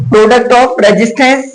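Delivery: very slow, words drawn apart; teacher spelling out the rule; slow dictation. Shown as a demonstration. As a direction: dictate it so students can write. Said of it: "सुन लो बेटा".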